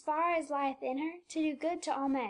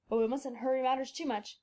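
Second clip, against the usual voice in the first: put-on cautious old doctor; 2 semitones lower than usual. A narrator's reading. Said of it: "said he".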